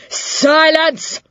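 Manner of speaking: a high, cracking cry of Silence; snapping. A narrator's reading. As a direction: bark it like a furious schoolmistress. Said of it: "she snapped".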